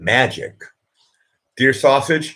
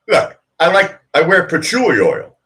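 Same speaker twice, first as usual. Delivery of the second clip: high put-on voice; 9 semitones higher, 5 dB louder than usual.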